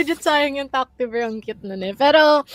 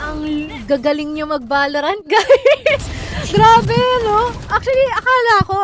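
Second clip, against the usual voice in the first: laughing; 8 semitones higher, 5 dB louder than usual. Real, not acted. Laughing praise after play.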